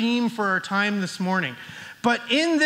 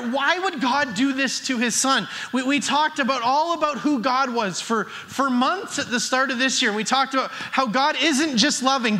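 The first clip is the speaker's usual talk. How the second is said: ordinary delivery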